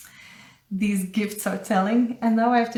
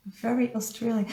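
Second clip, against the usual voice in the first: "Very Australian" repeated softer and faster, under the breath; soft quick echo; 6 dB quieter, faster than usual. Real, not acted. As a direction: mutter it back to yourself, quickly.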